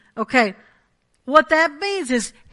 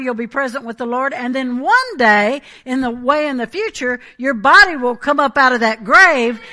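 loud, rising preacher's cadence, louder; preaching at full force; 2 semitones higher, 7 dB louder than usual. Acted. Preacher to his congregation, loud full-force preaching. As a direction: pound out the promise of resurrection to the church.

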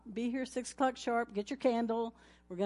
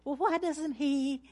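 mock complaining wife; 4 semitones higher, slower than usual. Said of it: "Vice versa".

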